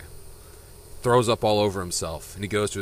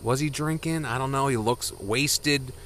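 lightly voiced doubtful wife, a little higher; unsure wife; 4 semitones higher than usual. Wife wondering if he was drinking, mildly unsure. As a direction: wonder aloud, drawing out the last words. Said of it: "she's not sure".

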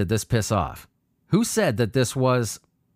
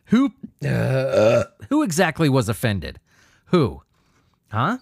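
angry; slower than usual. Real, not acted. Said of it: "You could hear it in my voice".

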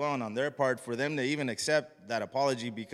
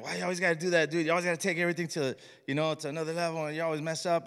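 mock family nagging, higher and quick; exasperated scolding; 4 semitones higher, faster than usual. Family tells him he always overdoes it, exasperated scolding. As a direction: imitate relatives complaining, pitched up.

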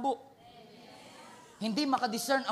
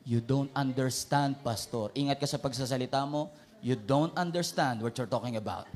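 defiant churchgoer; 6 semitones lower than usual. Retold or imitated. Acting a defiant believer.

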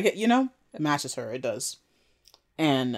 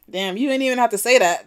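shocked reaction; 8 semitones higher, 6 dB louder than usual. Retold or imitated. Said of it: "I was like".

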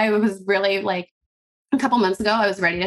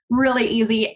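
laughing. Real, not acted. To the host, retelling recording episodes, laughing really easy. Laughing repeat of own words.

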